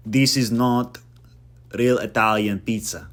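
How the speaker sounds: lightly put-on voice of an indignant customer; a hint of a hammed-up complainer; mock pizza complainer. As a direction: start loud, griping about the pizza. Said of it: "order a pizza in Rome".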